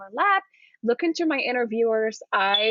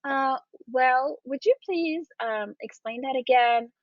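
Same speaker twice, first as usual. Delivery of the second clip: polite request; 2 semitones higher than usual. Shown as a demonstration. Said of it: "politely going to say".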